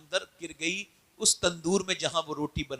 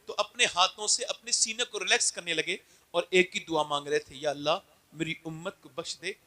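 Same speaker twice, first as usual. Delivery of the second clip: tender sermon; 2 semitones lower than usual. Acted. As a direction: hush the hall for the prophet's prayer. Softened hadith of the prophet.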